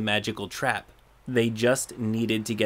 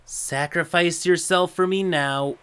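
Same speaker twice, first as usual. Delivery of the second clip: creepy calm threat; 6 semitones higher, 3 dB louder than usual. Retold or imitated. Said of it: "very calm in a creepy, threatening manner".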